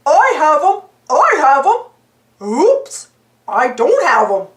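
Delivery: loud excited yelp turning to dismay; cheer, then panic as it slips. A narrator's reading. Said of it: "Goofy yelped".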